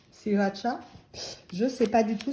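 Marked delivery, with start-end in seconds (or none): 0.1-0.8 sriracha tried as "siratcha", first R dropped; unsure attempt at "sriracha" as see-ra-tcha; tentative pronunciation. Shown as a demonstration. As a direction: try sriracha with a "tcha" ending. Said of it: "Si vous savez comment on prononce".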